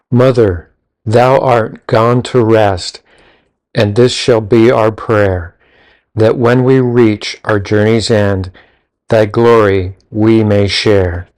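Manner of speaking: slow, measured recital of a grave verse; slow reverent recitation of a gravestone poem; solemn poem reading. Shown as a demonstration. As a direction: read it slowly like an epitaph.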